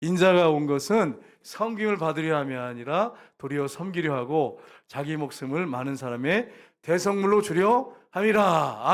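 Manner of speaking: measured congregational reading, slowing at the end; scripture read aloud. Real, not acted. Preacher leads congregation in reading Matthew, scripture reading. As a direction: lead the congregation through the verse, drawing out the close. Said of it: "같이 읽겠습니다".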